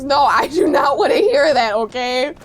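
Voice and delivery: loud, emphatic protest; firm refusal. Real, not acted. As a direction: shut the objection down forcefully. Rebuffs viewer's sympathy for enemies.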